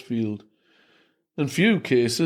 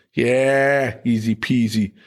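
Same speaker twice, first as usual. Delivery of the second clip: falsely confident, slightly louder; unconvincing; 4 dB louder, slower than usual. Acted. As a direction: bluff it, not believing it. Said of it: "in an entirely unconvincing voice".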